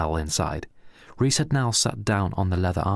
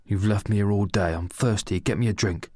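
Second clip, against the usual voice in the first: mild bitter mother; 2 semitones higher than usual. Acted. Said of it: "Pedro's bitter and angry mother".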